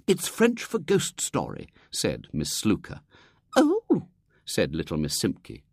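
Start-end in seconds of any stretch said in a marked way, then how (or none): 0.1-1.7 put-on higher, knowing old lady; Miss Slooker. Miss Slooker explaining to Miss Simpke, knowing lady. 3.6-4.1 much higher, contented little oh; satisfied. Acted. Miss Simpke accepting the answer, satisfied.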